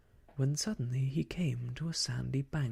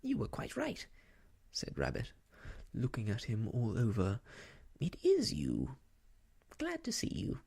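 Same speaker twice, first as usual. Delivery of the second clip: Rabbit voice. Acted. Rabbit greets Pooh.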